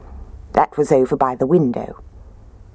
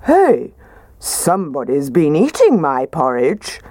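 a hint of a gruff father bear; lightly gruff papa bear; mildly gruff bear voice; gruff Daddy Bear. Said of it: "said in his gruff voice".

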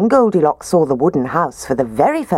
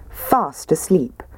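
ordinary delivery, nothing marked

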